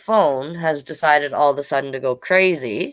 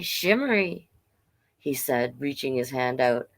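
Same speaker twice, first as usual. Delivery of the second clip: story narration. A narrator's reading. Reads picture book aloud.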